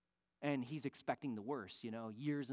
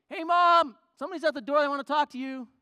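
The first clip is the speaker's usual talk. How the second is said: loud, high yell for Mom; teenage boy shouting to his mother; calling out; 11 semitones higher, 16 dB louder, faster than usual. Retold or imitated. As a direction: holler it through the house like a teenager.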